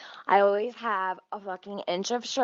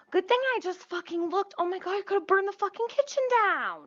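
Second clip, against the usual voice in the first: relieved rush; 11 semitones higher, faster than usual. Real, not acted. Relief after near grease fire.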